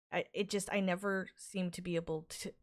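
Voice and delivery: halting, repeating words; stutter. Real, not acted. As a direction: stumble over the words. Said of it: "I apologize for my stutters".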